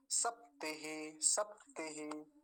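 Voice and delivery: slow सप्तिहि with half प and short ति; model pronunciation. Shown as a demonstration. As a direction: stop on the प, then short ति in सप्तिहि. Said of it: "ऐसा हो गया".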